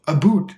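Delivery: "a boot" with a round oo vowel; American hearing of about. Shown as a demonstration. Teacher shows how Americans hear about as "a boot". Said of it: "Americans hear".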